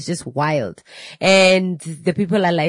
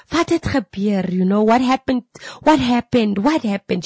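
distressed mother; 5 semitones higher than usual. Retold or imitated. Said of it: "she starts crying and crying".

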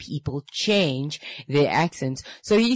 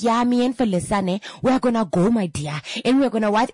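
chatty diner; 5 semitones higher, faster than usual. Retold or imitated. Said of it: "So the whole time he's like".

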